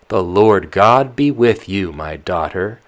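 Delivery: put-on loud, fussing old nurse voice; the old nyanya, voiced up loud and fretful. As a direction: nurse grumbling about her poor memory. Nurse blesses Tatiana.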